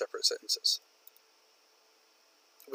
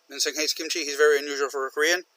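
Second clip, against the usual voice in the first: two sentences rushed into one; no break between the sentences; run-on, no pause; faster than usual. Shown as a demonstration. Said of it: "Separate them".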